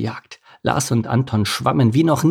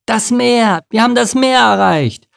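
high, loud cheer; overjoyed cry at finally arriving; jubilant; 12 semitones higher, 6 dB louder than usual. A narrator's reading. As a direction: shout it out in triumph. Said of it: "Lars jubelte".

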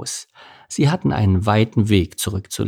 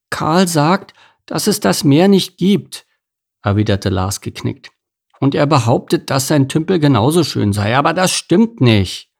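high, earnest little fish; a dejected little salmon, pitched up; young salmon Lars; 5 semitones higher than usual. Acted. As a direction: protest like a small child.

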